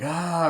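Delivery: half-hearted imitation of a scream; mild mock scream. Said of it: "Courtney Cox screams".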